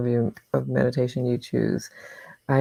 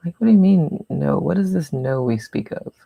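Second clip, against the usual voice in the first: put-on child's mind; 4 dB louder than usual. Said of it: "That is definitely a child's mind".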